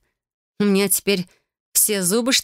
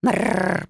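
cat purr. Acted. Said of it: "нравоучительным голосом пропел".

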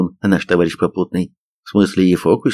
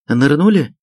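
higher-pitched, oddly affectionate question; strangely tender; 7 semitones higher than usual. A narrator's reading. Sergeant questions the soldiers by the fire, strangely tender. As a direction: ask with odd sweetness. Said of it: "с какой-то странно ласковой интонацией спросил старшина".

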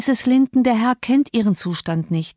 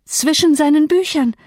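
Zwischen seinen Büchern cried out much higher and louder, Zwischen stressed; beside herself; 8 semitones higher, 4 dB louder than usual. A narrator's reading. Catherine to Nelly, echoing her words beside herself. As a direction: fling Zwischen seinen Büchern back in outraged disbelief. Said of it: "rief sie außer sich".

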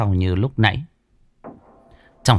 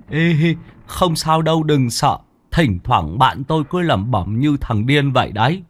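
put-on lightly higher, playful young voice; teasing; 4 semitones higher than usual. Tý teasing Cần about Đen, light playful voice. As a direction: tease your friend behind his back. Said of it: "chọc ghẹo".

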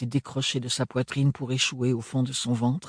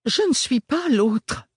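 high, slow protest; 12 semitones higher, 4 dB louder, slower than usual. A narrator's reading. Ophélie objecting to Lazarus, lightly voiced protest. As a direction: push back, lightly voiced young woman. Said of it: "protesta Ophélie".

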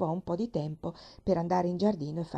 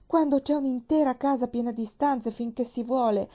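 louder, rising outrage; indignant rant; 4 semitones higher, 5 dB louder than usual. Acted. Nancy rants alone in the attic room, indignant and loud. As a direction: she pours her anger into the broom.

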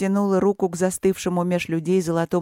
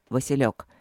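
lower, level and steady; even, calm; 4 semitones lower than usual. Acted. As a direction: keep it calm to soothe his wife. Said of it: "ровно проговорил Мариан".

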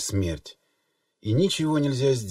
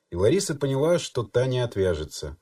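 ordinary delivery

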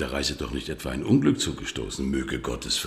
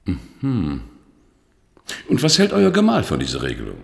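sharp demand; 4 semitones higher, 6 dB louder than usual. Acted. Bischof gereizt über Plan.

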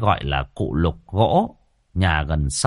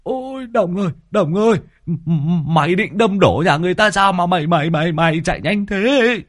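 shrieking in panic; 8 semitones higher than usual. A narrator's reading. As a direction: yell at the reckless driver. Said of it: "Lâm Sẹo rú lên".

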